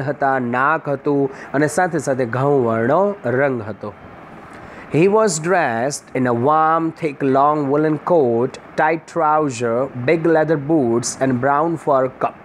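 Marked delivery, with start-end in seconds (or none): 4.9-12.3 very slow, careful reading aloud of the English passage; slow textbook reading. Shown as a demonstration. Teacher reading the lesson text slowly to students. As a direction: read each phrase slowly for the class. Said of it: "teacher reads the English text slowly".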